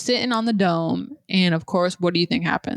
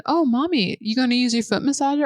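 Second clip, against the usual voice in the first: lightly voiced sweet toddler, higher; innocent child voice; 4 semitones higher than usual. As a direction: ask mommy innocently like a small kid. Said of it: "She said".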